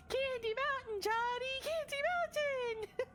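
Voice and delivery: high, drawn-out cartoon unicorn call; sing-song Candy Mountain lure; meme unicorn voice. Quoting the Charlie the Unicorn meme.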